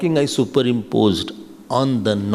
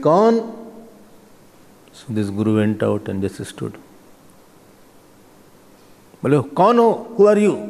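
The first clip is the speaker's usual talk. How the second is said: mock challenge; much faster than usual. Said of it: "I will hear how he scolds today".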